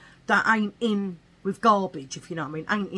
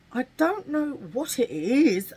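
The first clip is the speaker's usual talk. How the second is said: posh; 5 semitones higher than usual. Real, not acted. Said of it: "I said that extremely posh".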